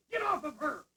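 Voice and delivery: sharp yelled command, real alarm; sudden shout. Acted. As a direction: bark it out to stop the attack. Someone attacked in the room.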